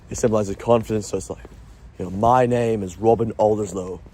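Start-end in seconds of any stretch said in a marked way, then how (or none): 2.1-4.0 relaxed, patient posh accent. Shown as a demonstration. Introducing himself with confidence, posh accent. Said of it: "I sound so posh when I say that".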